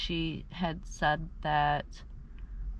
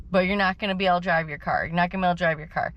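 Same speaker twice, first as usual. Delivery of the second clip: mocking the tow guy; 5 dB louder, much faster than usual. Quoting the tow guy's refusal.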